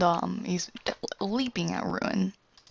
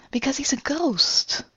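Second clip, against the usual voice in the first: whispering; 7 semitones higher, slower than usual. Retold or imitated. Character voice, unvoiced.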